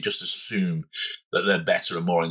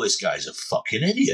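lightly put-on Cockney; a touch of mock Cockney; Cockney accent. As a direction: say it as a blunt Cockney. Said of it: "imagine that in a Cockney accent".

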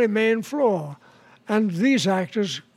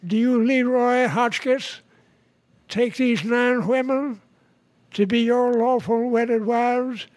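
lightly voiced preacher, slow and measured; a hint of slow, ceremonial officiating; wedding preacher; 3 semitones higher than usual. Preacher asking the groom his vows, lightly voiced and slow. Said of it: "the preacher started the wedding and he said".

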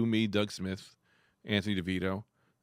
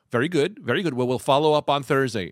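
loud, raised professional phone manner; wife's client voice; 3 semitones higher, 8 dB louder than usual. Retold or imitated. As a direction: imitate a wife being businesslike with her boss. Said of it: "I heard my wife's client voice".

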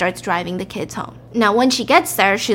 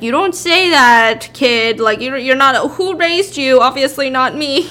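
scolding father; 3 semitones higher, 5 dB louder than usual. Acted. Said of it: "Sam is trying to be like".

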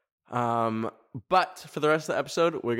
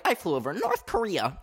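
higher, showy video boast; mock dramatic announcement; 7 semitones higher than usual. Creator posting a fake skit video, mock dramatic announcement. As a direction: throw it out like an outlandish claim. Acting out her own video caption.

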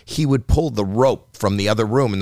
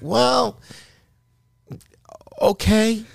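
sarcastic; 13 semitones higher, much slower than usual. Retold or imitated. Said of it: "And I went".

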